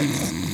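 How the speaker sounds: mock snoring; short put-on snore; imitated snore. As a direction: snore as if asleep mid-interview. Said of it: "then I hear him snoring".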